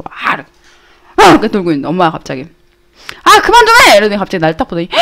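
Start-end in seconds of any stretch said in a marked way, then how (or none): 3.2-4.0 high-pitched retold scolding; acted motherly outburst, pitched way up; exasperated mom. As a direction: snap like a mom who's had enough. Retold mom scolds tumbling child.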